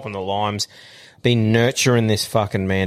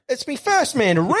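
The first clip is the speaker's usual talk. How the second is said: mock wounded pride; 13 semitones higher than usual. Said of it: "I'm like".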